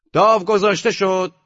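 croupier's announcement. A narrator's reading.

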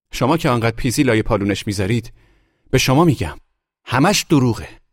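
high, loud screeching accusation; shrieked tirade. A narrator's reading. Wife denouncing her husband to guests, high loud shrieking. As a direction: shriek it at the whole crowd.

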